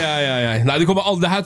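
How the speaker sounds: ordinary talk, nothing marked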